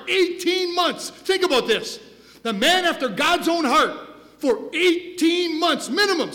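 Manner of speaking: loud, high, driving sermon voice; preaching at full force. Acted. Pastor preaching David's fall to the congregation, full force. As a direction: preach it hard and rising.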